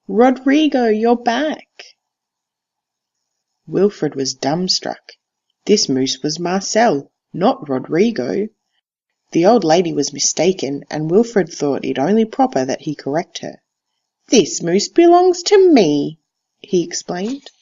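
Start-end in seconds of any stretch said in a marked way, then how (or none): 0.1-1.7 put-on high, bright old lady calling out in glee; delighted old lady. Old lady greeting the moose she calls Rodrigo, high and delighted. 14.3-16.2 slow, louder, higher insistent declaration; indignant boy. Acted. Wilfred insisting to the old lady, slow and emphatic.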